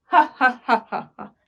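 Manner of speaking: spelt-out mock "ha ha ha"; acted laughter. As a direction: chain of staged chuckles. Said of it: "महाराज सिर्फ हंसते जा रहे". (महाराज की नकली हँसी)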